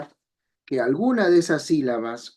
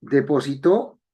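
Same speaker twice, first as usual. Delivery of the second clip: Depositó, stress on the last syllable tó; stress on final syllable. Shown as a demonstration. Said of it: "es depositar en el pasado". (acento en la última sílaba de Depositó)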